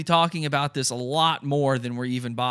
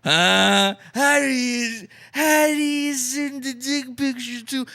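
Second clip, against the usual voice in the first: mock outrage; 2 semitones higher than usual.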